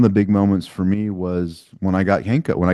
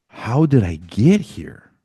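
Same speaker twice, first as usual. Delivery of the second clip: ashamed; much slower than usual. Retold or imitated. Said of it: "I was so ashamed".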